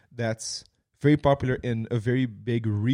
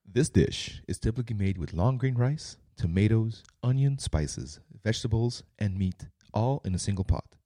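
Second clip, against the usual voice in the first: announcer voice; 3 semitones lower, 5 dB quieter than usual. Shown as a demonstration. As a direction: read it like a TV food announcer. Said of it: "my announcer voice".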